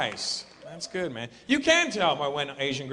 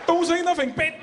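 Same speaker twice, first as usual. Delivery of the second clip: much higher, loud, clipped-off chopping words; Chinese accent; 12 semitones higher, 4 dB louder than usual. Retold or imitated. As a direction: chop each word like vegetables. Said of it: "chopping vegetables with the words".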